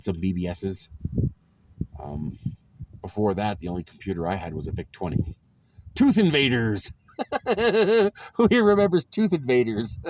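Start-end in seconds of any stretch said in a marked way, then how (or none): 5.9-10.0 higher, louder, thrilled burst; excited nostalgia. Real, not acted. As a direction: blurt it out with delight. Nostalgic outburst over old game.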